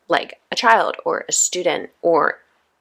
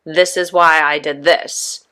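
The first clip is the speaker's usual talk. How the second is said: justifying; 3 dB louder, slower than usual. Retold or imitated. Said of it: "Went into justification mode".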